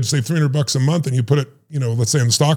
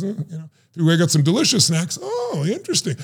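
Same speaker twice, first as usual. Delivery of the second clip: intrigued audience; 2 semitones higher than usual. Retold or imitated. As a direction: play the audience perking up at snacks. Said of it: "The audience goes".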